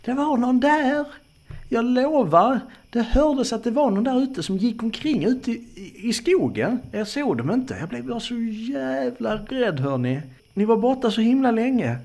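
high-pitched, loud frightened woman; panting fright. Acted. Frightened woman telling friends of someone in the woods, panting. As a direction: pour it out in a high, alarmed voice. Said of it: "flåsar hon".

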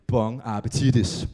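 hammed-up restaurant farewell; mock fancy chef. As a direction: drawl it like a pompous chef.

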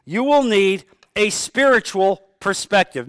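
"will" dwelt on and pushed; stress on will. Shown as a demonstration. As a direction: lean into "will" as a promise. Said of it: "Let me repeat what I just said".

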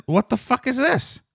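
high-pitched incredulous squeal; appalled disbelief. Retold or imitated. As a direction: voice leaping up in mock outrage. Acted shocked reaction to wrecked box.

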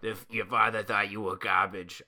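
bad Spider-Man voice. Host mocks Spider-Man's angry lines in a low, soft voice. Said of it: "that's just my bad Spider-Man voice".

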